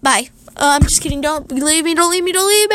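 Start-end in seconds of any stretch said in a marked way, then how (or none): 1.2-2.8 hammed-up begging, rising; mock pleading. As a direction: plead like you're being abandoned. Jokingly begs viewers to stay.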